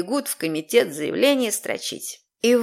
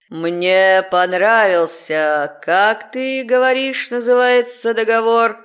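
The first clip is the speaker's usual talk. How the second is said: demonic layered voice; slower than usual. Acted. Demon speaks.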